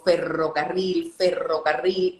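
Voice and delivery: ferrocarril said slowly with the rolled R spelled out clearly; tongue twister drill. Shown as a demonstration. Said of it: "buscar un trabalengua". (ferrocarril despacio, marcando bien la erre)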